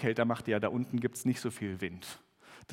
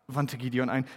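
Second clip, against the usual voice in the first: measured Bible reading with lightly acted voices; scripture reading. Pastor reads Gideon's story aloud to the congregation, measured reading. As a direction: read the passage to the congregation.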